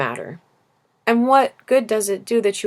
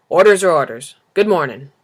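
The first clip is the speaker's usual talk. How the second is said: tired lamplighter; 8 dB louder than usual. Acted. Weary lamplighter repeats his orders.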